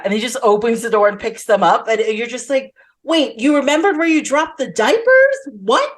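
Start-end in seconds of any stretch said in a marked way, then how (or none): 3.0-5.9 higher-pitched mock disbelief; retold viewer's incredulity; incredulous reaction. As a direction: question it as if astonished.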